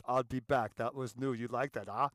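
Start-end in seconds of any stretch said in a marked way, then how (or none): 0.1-0.8 action-hero catchphrase, lightly imitated; Arnold Schwarzenegger. Lecturer repeating the famous line for laughs, impersonation. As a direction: toss out the star's catchphrase in his voice. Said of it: "he uses the line".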